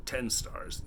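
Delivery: hiccuping while talking; hiccups. Real, not acted. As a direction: speak through hiccups. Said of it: "Yes, I have the hiccups".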